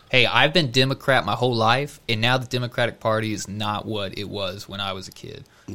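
put-on light Southern accent; slightly Southern-accented impression. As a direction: imitate a politician with a hint of Southern twang. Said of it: "I'm giving him a Southern accent".

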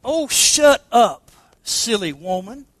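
slow, sneering, grinning snake voice; the snake mocks the woman he bit, drawn out. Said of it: "said the reptile with a grin".

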